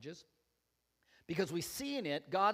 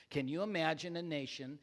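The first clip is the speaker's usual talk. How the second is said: pointed sarcasm. Shown as a demonstration. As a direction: underline the sarcasm a little more. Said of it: "you don't get the sarcasm in that".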